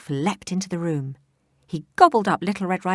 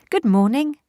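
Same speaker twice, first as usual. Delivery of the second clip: calling back; 8 semitones higher, 8 dB louder than usual. Acted. Girl calls back.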